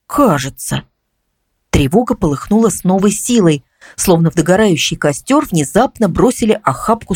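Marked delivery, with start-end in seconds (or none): 0.1-0.8 lower, hesitant afterthought; unsure afterthought. A narrator's reading. Neighbour adds a doubt after thinking, unsure. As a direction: add it doubtfully, pitch dropping. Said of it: "ещё немного подумав, добавила".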